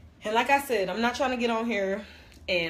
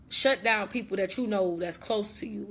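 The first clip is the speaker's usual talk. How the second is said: ordinary talk, nothing marked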